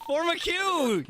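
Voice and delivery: high laughing order. Real, not acted. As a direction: laugh through the words. Laughing while ordering queue.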